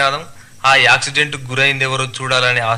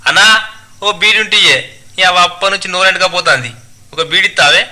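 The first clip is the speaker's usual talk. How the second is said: higher, loud dialect-speaking villager; tailor begging a beedi; 6 semitones higher, 5 dB louder than usual. Acted. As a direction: call out pleadingly for a smoke. (బీడి అడుక్కునే దర్జీ, పెద్దగా యాసలో)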